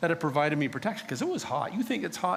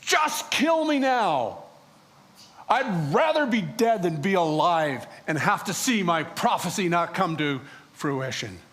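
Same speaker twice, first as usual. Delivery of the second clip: despairing outburst; 3 dB louder than usual. Retold or imitated. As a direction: fling it at God, then run out of steam. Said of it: "And I said to God".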